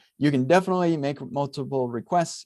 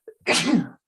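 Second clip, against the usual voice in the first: sneezing; 10 semitones higher, 3 dB louder than usual. Real, not acted. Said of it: "Sorry, I'm gonna sneeze".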